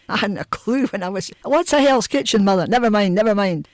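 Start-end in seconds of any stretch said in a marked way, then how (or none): 1.4-2.6 higher, louder retold child's question; lightly acted child asking mother; puzzled child. 2.6-3.7 louder, mildly acted brush-off; mock-cross, a bit loud; retold screaming. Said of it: "she'd then be screaming at him".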